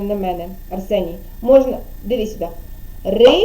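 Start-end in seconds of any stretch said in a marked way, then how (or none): 3.0-3.3 "Риба" broken into "Ри" and "ба"; syllable by syllable. Shown as a demonstration. Teacher showing Арсеній how to clap syllables, "Риба" split in two. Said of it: "плеснути в долоньки".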